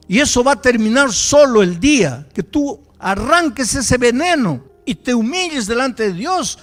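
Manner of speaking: loud, high, fiery preaching; forceful rebuke. Retold or imitated. Pastor to the bitter young man, loud fiery rebuke. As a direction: hammer the warning home.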